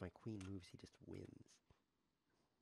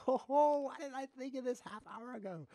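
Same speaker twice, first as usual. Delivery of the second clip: laughing; 13 semitones higher, 5 dB louder than usual. Real, not acted. Laughs at his own move.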